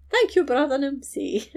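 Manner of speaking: high, theatrical gratitude; hammed-up thanks. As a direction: gush your thanks for show. He continues his spectacle.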